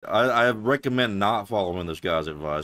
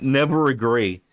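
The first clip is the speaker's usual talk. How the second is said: flat, falling, louder mock of never agree; mocking repeat; 3 semitones higher, 5 dB louder than usual. Real, not acted. Mocking the coach's rule back at him. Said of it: "What are you talking about?".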